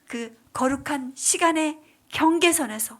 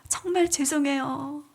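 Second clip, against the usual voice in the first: tearful apology; 2 semitones higher, 3 dB louder than usual. Retold or imitated. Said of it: "울면서 기도하는데".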